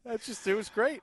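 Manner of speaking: put-on host still half in his German accent; mock German accent. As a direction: keep the German accent going, lightly. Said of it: "I'm just impersonating".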